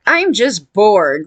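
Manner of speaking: slow, drawn-out imitation of boredom; lightly acted bored killer; mock bored. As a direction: stretch the words in mock boredom.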